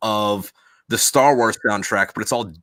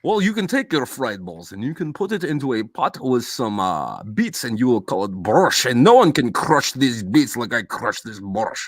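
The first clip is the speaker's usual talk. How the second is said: mock Russian accent. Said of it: "fresh off the fucking boat".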